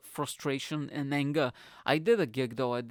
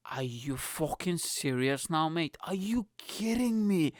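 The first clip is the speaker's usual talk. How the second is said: incredulous; 2 semitones higher, slower than usual. Retold or imitated. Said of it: "I was thinking, like".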